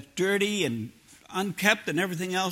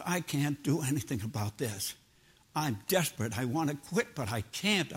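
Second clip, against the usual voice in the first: low, softened plea to God; understated desperate prayer; 4 semitones lower, 4 dB quieter than usual. Retold or imitated. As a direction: retell a helpless confession, quiet and earnest. Retells his desperate prayer to quit.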